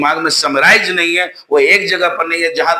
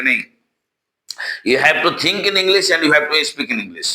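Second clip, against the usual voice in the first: quoting English teachers; much slower than usual. Retold or imitated. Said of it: "कोई भी teacher जो English के आपको मिलेंगे, वही आपको बताएंगे".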